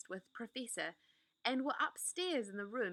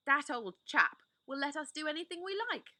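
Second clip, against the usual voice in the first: excited Peter; 7 semitones higher, 5 dB louder than usual. Acted.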